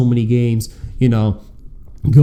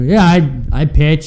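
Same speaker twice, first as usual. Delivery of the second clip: eager reply; 4 semitones higher, 4 dB louder, slower than usual. Retold or imitated. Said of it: "I go".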